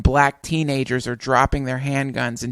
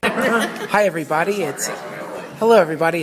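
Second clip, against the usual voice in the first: laughing; 5 semitones higher than usual. Real, not acted. Host laughs while greeting.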